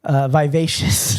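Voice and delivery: slow tipsy correction. Real, not acted. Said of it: "I'm so drunk right now".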